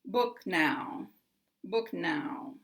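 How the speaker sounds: "book" and "now" both stressed, gliding down; falling tune through "now"; downward glide. Shown as a demonstration. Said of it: "the intonation is going to glide down".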